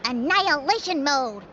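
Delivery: hammed-up machine announcement; mock robot voice. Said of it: "she said".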